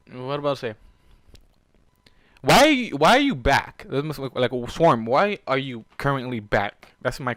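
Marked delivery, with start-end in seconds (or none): 2.4-3.9 loud, high, slow demand; angry demand. Acted. Warden's player confronting the returned wife, loud and slow. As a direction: confront her hard.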